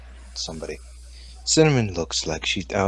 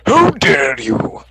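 slow, loud posh indignation; a lightly voiced outraged aristocrat; eccentric millionaire; 3 semitones lower, 4 dB louder, slower than usual. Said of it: "He sounds like an eccentric millionaire".

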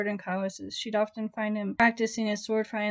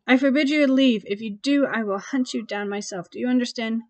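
loud, raised commanding voice; 2 semitones higher, 7 dB louder than usual. A narrator's reading. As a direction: lay down the law, louder. Possessive vampire commanding her.

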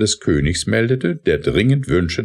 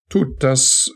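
urgent cry, higher; calling out; 8 semitones higher than usual. A narrator's reading. Lawyer urging Scuderi not to beg the king, raised voice. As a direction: cry out to stop her. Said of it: "rief Dandilly".

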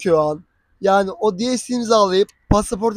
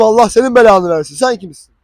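loud mock curse; shouting back at the girlfriend, mock angry; angry retort; 6 dB louder than usual. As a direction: fling the curse back at her. Retold quarrel with his girlfriend.

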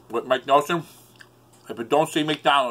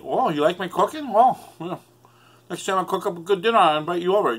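imitating Mike Nelson; 3 semitones higher, faster than usual.

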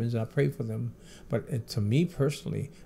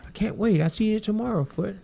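imitating Michael; 8 semitones higher than usual. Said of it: "He said".

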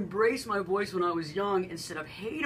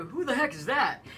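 laughing; 5 semitones higher than usual. Retold or imitated. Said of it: "they go".

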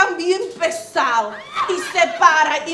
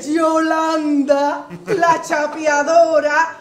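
drawn-out proud announcement; 3 semitones lower, slower than usual. Acted. Proud self-introduction shouted to crowd.

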